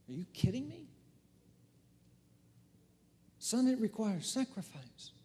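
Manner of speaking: lightly voiced coach scoffing at a quitter; coach's retort. Coach to his runner who wants to quit, mock disbelief. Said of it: "What do you think the coach would say?".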